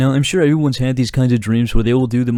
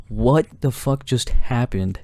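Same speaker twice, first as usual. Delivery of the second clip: confused; slower than usual. Retold or imitated. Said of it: "the other side of me was like".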